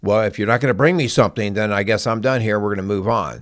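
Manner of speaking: a hammed-up impatient grown-up brushing a kid off; mock impatient parent. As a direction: rattle it off like you've lost patience. Impatient parent cutting comfort short.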